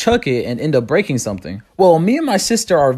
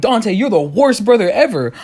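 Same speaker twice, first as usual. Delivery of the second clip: higher-pitched mock-angry sister; mildly indignant, raised-pitch sibling complaint; mad sister; 4 semitones higher than usual. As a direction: imitate a sister getting mad, lightly. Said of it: "She gets mad".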